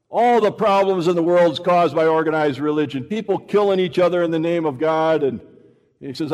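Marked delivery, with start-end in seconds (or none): 0.1-5.2 heated rant. Retold or imitated. Angry atheist quoted ranting.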